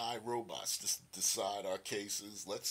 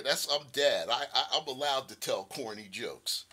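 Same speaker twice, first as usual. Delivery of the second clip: usual speaking voice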